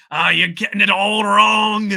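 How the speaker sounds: loud, high, slow bad Scottish old man; hammed-up curmudgeonly Scottish grumble; grumpy Scottish accent. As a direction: bark it like a cranky old Scotsman. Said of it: "that's probably a terrible Scottish accent instead".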